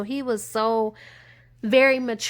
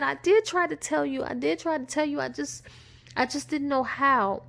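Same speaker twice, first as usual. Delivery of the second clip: pleading wife; 4 semitones higher than usual. Retold or imitated. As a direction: insist you tried, fading.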